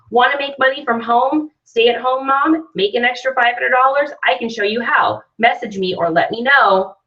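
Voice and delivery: lightly voiced salesman, pitched a little up; a hint of a salesman's pitch; salesy pitch. Shown as a demonstration. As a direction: read it aloud like a selly ad. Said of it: "That sounds totally selly".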